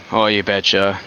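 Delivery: light Wisconsin accent on a stock phrase; folksy upper-Midwest Wisconsin accent, lightly done. Shown as a demonstration. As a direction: give a taste of a Wisconsin accent. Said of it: "kinda like this".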